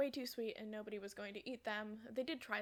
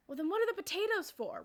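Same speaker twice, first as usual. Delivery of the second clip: raised pitch, louder puzzled query; baffled question; 8 semitones higher, 5 dB louder than usual. Retold or imitated. Baffled dad asks about the potato chips, puzzled and higher. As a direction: act out a dad getting more confused.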